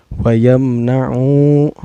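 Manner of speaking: "Wa yamna'u" with the final U held long; elongated vowel. Shown as a demonstration. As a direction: slowly chant "Wa yamna'u", stretching its ending. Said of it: "dipanjangkan dua harakat". ("Wa yamna'u" dengan akhir dipanjangkan)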